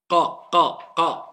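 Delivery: "qa" struck from the back of the tongue; correct qaf. Shown as a demonstration. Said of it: "Pour prononcer correctement la lettre qaf".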